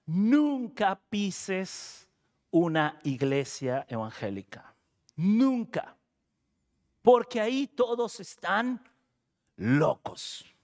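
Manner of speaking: lightly voiced grandmother, slow drawn-out NUNCA; a hint of grandmotherly admonishing; grandmother's stern warning. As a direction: imitate a grandmother laying down a rule, with weighty pauses. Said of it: "mi abuela le decía".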